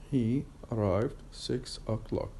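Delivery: words joined into one phrase, still measured; connected speech. Shown as a demonstration. Teacher showing the difference in connected speech, words joined up. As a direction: run "He arrived six o'clock" together without long pauses. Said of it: "when I pronounce it as, uh, connected speech".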